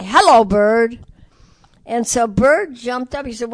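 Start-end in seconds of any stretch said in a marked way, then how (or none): 0.0-1.0 louder, lightly imitating a parakeet. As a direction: chirp it like a talking bird. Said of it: "he'd say".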